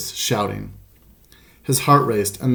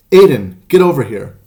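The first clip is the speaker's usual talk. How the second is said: angry shout; 3 semitones higher, 9 dB louder than usual. A narrator's reading. Harsh adult hollering for the boy from across the park, loud shout. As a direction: bellow the name to summon him. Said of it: "it shouted".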